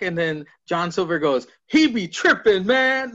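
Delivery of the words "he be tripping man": put-on forced young lingo. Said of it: "I know the young lingo".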